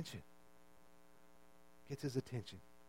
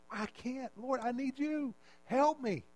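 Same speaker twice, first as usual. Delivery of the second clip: softer, hushed plea to God; quiet prayer; 4 semitones higher, 6 dB quieter, slower than usual. Acted. Preacher voicing a broken believer's prayer, softly. Humble prayer voiced in sermon.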